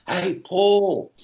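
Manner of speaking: high call across the square; yelling out. Retold or imitated. The speaker calling across Soho Square to a famous musician, a high mock yell. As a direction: call out to get his attention. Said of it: "And I yelled out".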